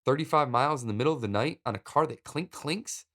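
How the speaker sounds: confused voice, pitch climbing toward the end. Retold or imitated. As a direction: ask it in baffled disbelief, halting at first. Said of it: "I ask in a confused voice".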